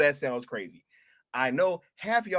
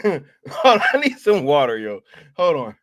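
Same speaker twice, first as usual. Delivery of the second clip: laughing hold on; 3 semitones lower, 6 dB louder than usual. Retold or imitated. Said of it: "He said".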